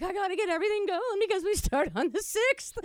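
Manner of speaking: rushed excitement. Retold or imitated. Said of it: "I'm like".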